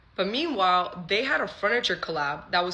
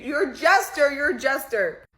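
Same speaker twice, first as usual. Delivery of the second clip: higher, punched insult; retold angry accusation; 7 semitones higher, 4 dB louder than usual. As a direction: hurl it twice, loudest the first time. Acted quarrel, hurling an insult.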